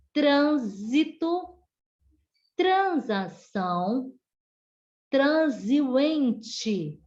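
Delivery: "trânsito", "transação", "transiente" with a Z after "tran"; trans com som de Z. Shown as a demonstration. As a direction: enunciate each word, voicing the S of "trânsito", "transação", "transiente" as Z. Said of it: "terá som de Z". ("trânsito", "transação", "transiente" com som de Z, bem articulado)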